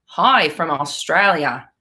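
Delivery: slow, drawn-out Aussie greeting; Australian accent. Acted. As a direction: put on a playful Australian accent. Reads Australian viewer's greeting with accent.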